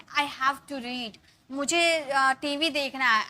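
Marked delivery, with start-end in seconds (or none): 0.0-1.2 very slow, words spaced out; slow dictation. Shown as a demonstration. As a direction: dictate slowly. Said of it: "मुझे पढ़ना पड़ता है". (धीरे-धीरे लिखवाना)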